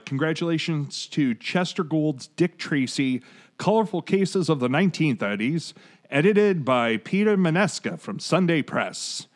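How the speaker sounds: lightly voiced old-time radio announcer; a hint of a vintage newsreel announcer; 1930s announcer voice. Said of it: "I felt the need to go into nineteen thirties announcer voice".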